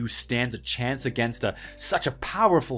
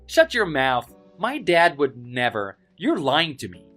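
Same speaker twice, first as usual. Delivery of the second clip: angry denial; 3 semitones higher, 3 dB louder than usual. Acted. Bully angrily denies the claim.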